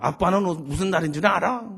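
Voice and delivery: 딸이 높고 크게 되받아치는 흉내; 아빠 질문을 그대로 돌려주듯 살짝 당돌하게; 되묻는 딸. Retold or imitated. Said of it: "우리 딸이 대래 물어". (되레 따져 묻는 말투)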